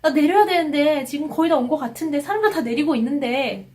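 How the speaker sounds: hurried fretting about missing a stop; mild panic. Retold or imitated. Passenger worrying as everyone else gets off, mildly panicked.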